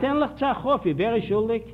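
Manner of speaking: laughing through the punchline. Real, not acted. Lecturer laughing to audience at own anecdote. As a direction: chuckle as you ask who is to blame. Laughing while telling the joke.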